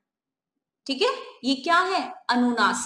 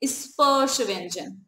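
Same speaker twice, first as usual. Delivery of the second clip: slow repeat; slower than usual. Shown as a demonstration. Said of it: "क्या है?".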